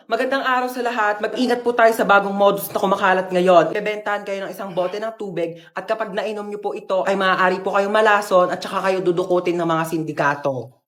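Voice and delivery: measured newscaster delivery, warning the public; news anchor read. Acted. TV anchor warns viewers of a new scam, newscaster tone. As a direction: read it like an evening news bulletin.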